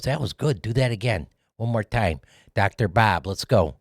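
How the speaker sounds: lightly voiced hardcore Chicago accent, director giving notes; a hint of Michael Mann's Chicago accent. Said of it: "It's a hardcore Chicago accent".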